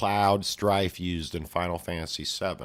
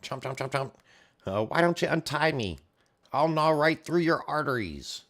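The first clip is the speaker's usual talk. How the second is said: high, loud little creature taunt; cheeky elf taunting the swordsman, high and squeaky; 9 semitones higher, 3 dB louder than usual. Retold or imitated. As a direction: sneer up at him in a tiny high voice. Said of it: "the elf's like".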